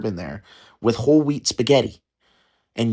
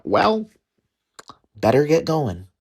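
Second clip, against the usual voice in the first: higher folksy mock voice, lightly voiced; mimicking relatives leaving; 4 semitones higher than usual. Mocking relatives making their exit after dinner. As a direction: slap the knees and sigh it out like old relatives.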